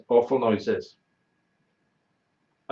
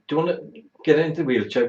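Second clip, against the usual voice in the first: imitating the nurse; 4 semitones higher, 4 dB louder, faster than usual. Nurse voiced in story.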